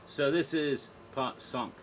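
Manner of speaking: slow "cinq" said the French way, like "sank"; French number. Shown as a demonstration. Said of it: "And cinq".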